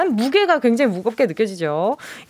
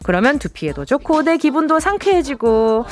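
lively home-shopping host read; scripted product promo delivery; radio shopping pitch; 4 semitones higher than usual. Acted. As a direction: sell it like a radio shopping segment. Scripted shopping segment over music.

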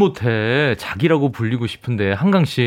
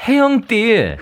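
high, lisping cute voice; baby talk to a lover; 8 semitones higher, slower than usual. Pretend. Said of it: "혀 짧은 소리죠". (혀 짧은 소리)

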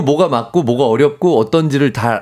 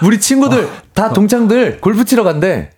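whiny husband voice; 8 semitones higher than usual. Acted. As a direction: tell her like a hopeful husband. Acting husband telling wife.

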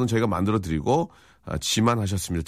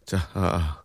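ordinary delivery

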